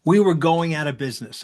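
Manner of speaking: blunt, matter-of-fact admission; deadpan confession. Retold or imitated. Telling a kid the blunt truth, deadpan. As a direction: own up flatly, no spin. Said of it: "I looked at the kid and I said".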